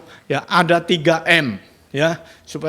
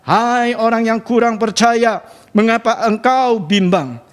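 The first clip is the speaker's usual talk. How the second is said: gentle rebuke; 5 semitones higher, slower than usual. A narrator's reading. Jesus rebukes doubting Peter.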